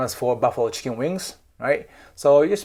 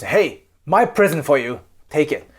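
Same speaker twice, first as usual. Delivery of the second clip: blunt and a little louder, pushing the gift; rude casual handing over; 2 semitones higher, 5 dB louder than usual. Shown as a demonstration. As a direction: shove the present at them carelessly. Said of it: "You don't wanna give a present like this".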